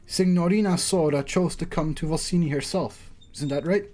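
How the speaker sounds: lightly dramatised back-and-forth; acted story reading. Host and judge spar over guests, lightly acted story reading. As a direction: voice the exchange with mild theatrical poise. Voices game characters.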